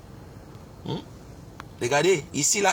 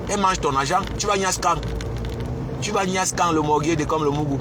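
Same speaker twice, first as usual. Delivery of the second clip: heated rant; 4 semitones higher than usual. Real, not acted. Heated rant about Lolo.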